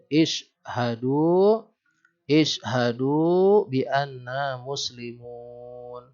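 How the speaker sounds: very slow, stretched chanted reading; Quran recitation. Shown as a demonstration. Teacher showing students the verse, slow chanted recitation. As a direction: draw out every syllable in recitation.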